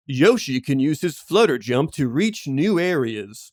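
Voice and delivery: earnest picture-book read; mild storybook reading voice; reading to a child. Retold or imitated. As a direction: read it sincerely to a toddler. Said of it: "made me start laughing while reading with him sincerely".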